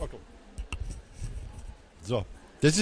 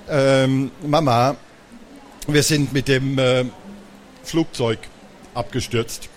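stammering; 5 semitones lower than usual. Acted. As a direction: stammer out the excuse sheepishly. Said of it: "stotterte Magda".

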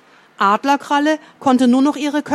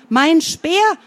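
shout; 5 semitones higher than usual. A narrator's reading. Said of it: "schrie stehender Bär".

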